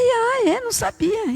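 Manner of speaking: high, drawn-out feigned surprise; playing innocent with the orderly, high; mock surprise.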